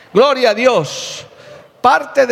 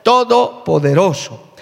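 slow, drawn-out acclamation of praise; solemn, stately hallelujah; proclaimed angelic praise; slower than usual. Acted. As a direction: proclaim it like a heavenly host, stretching each word. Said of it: "las huestes angelicales dicen".

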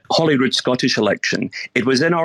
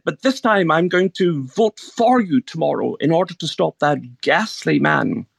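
posh voice; 5 semitones higher than usual. Retold or imitated. Elderly lady in a posh area tells the candidate she always opposed him, in a put-on posh voice. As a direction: lift the pitch and play a prim posh lady. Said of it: "This is my posh voice I'm putting on here".

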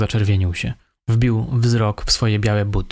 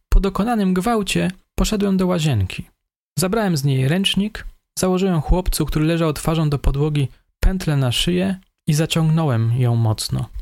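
higher, meek voice of the suspect; 6 semitones higher than usual. A narrator's reading. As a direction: play the timid young killer, higher. Suspect describes the killing.

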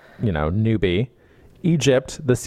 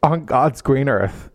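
incredulous shout; 4 semitones higher than usual. Real, not acted. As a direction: yell it in total disbelief. Outraged reaction to book passage.

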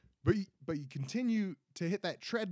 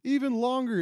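worked up; 8 semitones higher, 5 dB louder than usual. Real, not acted. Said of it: "And I'm getting worked up".

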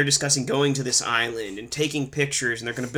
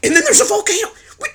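exasperated rant; 8 semitones higher, 4 dB louder than usual. Real, not acted. Exasperated rant about the volcano.

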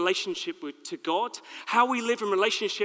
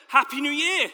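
higher, louder, laughing greeting; friendly; 6 semitones higher, 5 dB louder than usual. Shown as a demonstration. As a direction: greet them warmly with a laugh. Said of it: "It's not very friendly, is it?".

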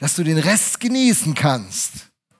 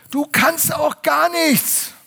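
slow, much higher, loud shout; father's angry shout; 12 semitones higher, 5 dB louder, much slower than usual. Retold or imitated. Choleric father yells at his son, slow furious shout. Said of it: "hat er über mich geschrien".

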